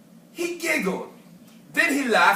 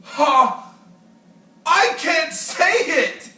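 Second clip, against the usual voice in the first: loud, higher giggly refusal; giggling rhino; 5 semitones higher, 6 dB louder, slower than usual. Acted. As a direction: gasp it out through laughter. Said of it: "giggled the rhinoceros".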